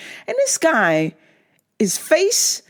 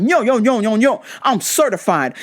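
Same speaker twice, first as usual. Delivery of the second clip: rhythmic, repetitive hype-man chant; punchy mock rap patter; mock wannabe rapper. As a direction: imitate an amateur rapper hyping himself up. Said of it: "a rap concert at my work".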